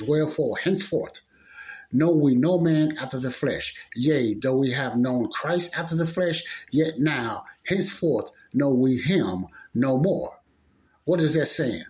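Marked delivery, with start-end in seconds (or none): 0.0-10.4 King James reading. Shown as a demonstration. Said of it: "But I'm gonna read it like it's read in the King James".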